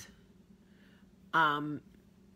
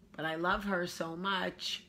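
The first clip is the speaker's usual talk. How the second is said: tender whisper; 3 semitones higher, slower than usual. Real, not acted. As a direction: whisper it lovingly.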